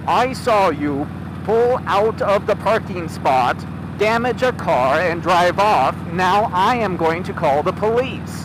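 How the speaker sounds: put-on slow, deliberate talking-down to a child; condescending manager voice. To the driver who hit the car, a condescending manager voice. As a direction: lay it out like a manager scolding a kid. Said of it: "standard adult manager voice, condescending child mode".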